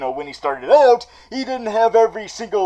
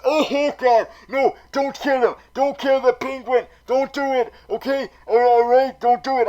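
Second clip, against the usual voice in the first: pleading; 7 semitones higher than usual. Real, not acted. Pleading with writers.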